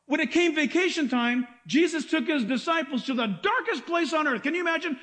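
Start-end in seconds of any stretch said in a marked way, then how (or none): none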